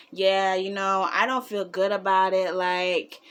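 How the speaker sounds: put-on low, subdued boyfriend voice; imitating reluctant boyfriend. Retold reluctant, queasy boyfriend.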